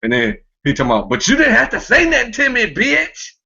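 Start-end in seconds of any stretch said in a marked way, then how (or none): 1.1-3.3 a higher camp parody of the clip guy; lightly camp, sing-song "bitch"; mock camp voice. Podcaster imitating the clip guy, high mock camp. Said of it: "That's, that's gay".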